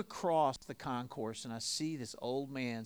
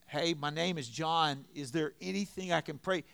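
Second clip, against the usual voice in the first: raised-voice repeat; 4 semitones higher, 7 dB louder than usual. Acted. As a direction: speak up for someone hard of hearing. Repeats himself for hard-of-hearing man.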